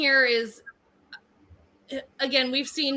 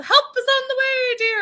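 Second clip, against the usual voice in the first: put-on high old-lady falsetto; hammed-up granny falsetto; Mrs. Doubtfire voice; 11 semitones higher, 4 dB louder than usual. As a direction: coo it like a sweet old nanny. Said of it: "the Missus Doubtfire of".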